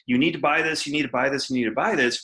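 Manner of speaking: insistent, evenly repeated sales line; pushy hard sell. Acted. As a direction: hammer it at the customer on repeat. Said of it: "having to bang them over the head with".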